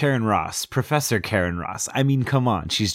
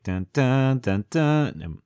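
sung-out suspense sting; dramatic music sting; 4 semitones higher, much slower than usual. Retold or imitated. Imitating the expected film music, dramatic dun-dun sting. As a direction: mimic a dun-dun soundtrack cue. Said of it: "you just expect to be like".

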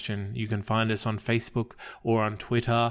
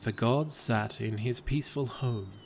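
calm, even storyteller read of a gentle fable; story narration; 4 dB quieter, slower than usual. A narrator's reading. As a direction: tell it like a bedtime legend. Reads a fable aloud.

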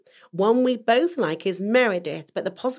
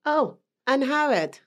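slow, higher Welsh lilt; Welsh accent; 5 semitones higher, slower than usual. Shown as a demonstration. Answering co-host's name quiz, slow Welsh accent. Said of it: "investing in my Welsh accent".

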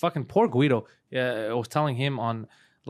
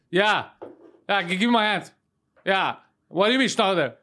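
vintage cartoon voice; 3 semitones higher than usual. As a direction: play it like an old cartoon character. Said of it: "He sounds like a fucking cartoon".

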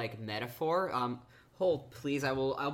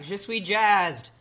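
higher, louder, slow mock French; 7 semitones higher, 8 dB louder, slower than usual. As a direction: say it slowly with a jokey French accent. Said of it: "'cause I'm like".

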